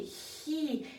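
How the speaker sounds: a quick panting He with the tongue up; panting like a dog. Shown as a demonstration. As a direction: pant out He like a dog. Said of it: "like you're panting like a dog".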